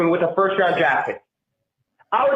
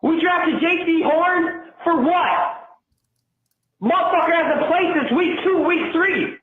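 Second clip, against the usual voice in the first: angry; 5 semitones higher than usual. Real, not acted. Caller blasting the offensive line, angry shouting. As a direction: yell at the linemen in disbelief. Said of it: "I'm so fucking angry".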